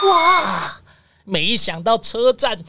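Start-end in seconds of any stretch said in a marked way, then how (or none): 0.1-0.8 a high, delighted gasp of wonder; amazed wow. Acted. Amazed at the pretty station.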